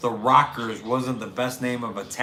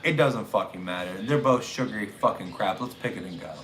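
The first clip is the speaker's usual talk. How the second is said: low, weary dismissal, sinking softer; impatient dad; 4 semitones lower, 4 dB quieter than usual. Retold or imitated. Dad to son choosing between sodas, low weary impatience. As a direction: hurry the kid along, unimpressed. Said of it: "and I was like".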